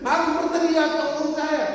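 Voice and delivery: high, loud cry for help; high, loud call to a passerby; shouting for help. Shown as a demonstration. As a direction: yell it up out of the pit. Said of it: "orang tidak bisa dengar".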